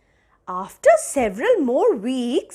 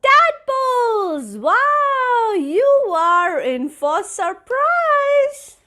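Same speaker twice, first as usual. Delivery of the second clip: smiling; 7 semitones higher, slower than usual. A narrator's reading. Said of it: "with a big smile said".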